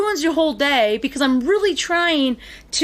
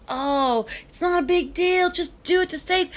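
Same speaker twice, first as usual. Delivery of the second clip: mock laid-back; 6 semitones higher than usual. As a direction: shrug it off, mimicking someone easygoing. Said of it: "so, like, laid back".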